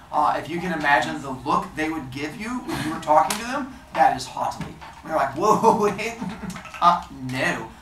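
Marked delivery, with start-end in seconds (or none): 5.4-7.7 haughty. Shown as a demonstration. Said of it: "that's haughtily".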